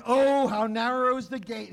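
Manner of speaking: "Oh" leaned on, a mild warning. Retold or imitated. Preacher voicing Jesus warning the crowd, mild warning. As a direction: caution them, lightly. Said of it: "he warns".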